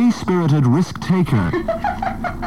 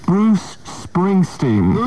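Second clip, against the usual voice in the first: drawn-out reveal; 4 semitones higher, much slower than usual. Acted. Dramatic reveal of surprise guest.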